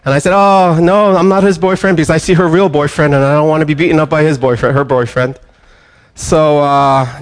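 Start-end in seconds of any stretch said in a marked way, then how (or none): 0.3-5.4 flustered protest. Retold or imitated. Pastor's flustered joking denial.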